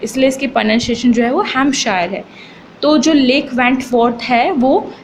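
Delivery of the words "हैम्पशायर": "हैम्पशायर" said with the P left silent. Shown as a demonstration. Teacher shows students the pronunciation, "हैम्पशायर" with silent P. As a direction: say "हैम्पशायर" as Ham-shire, dropping the P. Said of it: "पी है वो silent है".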